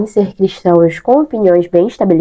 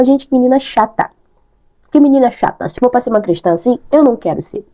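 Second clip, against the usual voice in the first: higher, exasperated put-down; annoyed friend; 4 semitones higher than usual. Retold or imitated. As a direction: roll your eyes at her. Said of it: "A pessoa vai olhar pra mim e falar".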